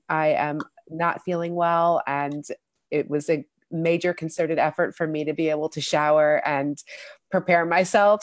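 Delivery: stuffy-nosed, under the weather; nasal voice. Real, not acted. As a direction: speak through a blocked nose. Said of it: "excuse my nasally voice".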